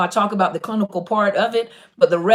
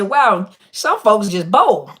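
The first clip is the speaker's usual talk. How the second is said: mock incredulous; 5 dB louder, much slower than usual. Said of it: "I said".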